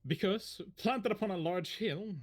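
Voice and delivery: measured scene-setting narration; story narration. Acted. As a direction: paint the scene for the players. Game master scene setting.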